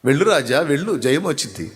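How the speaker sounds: mock blessing with a sly sneer; dry, knowing sarcasm in a prophet's voice; sarcastic. Shown as a demonstration. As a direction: say it so the king hears the opposite. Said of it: "ఏ టైపులో అంటే ఆ మాట అన్నాడు".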